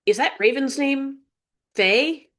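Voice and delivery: high puzzled question; surprised question. Acted. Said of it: "Zoe observed".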